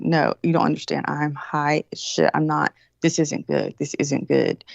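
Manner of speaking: low, slowing stoned seriousness; slow down and warn gravely that something is off; stoned earnest insistence. Retold or imitated. Stoned, earnest warning retold.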